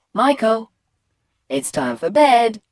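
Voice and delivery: firm parental summons; mum calling bedtime. Acted. Mum to boy watching telly, firm call. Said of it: "And Mum says".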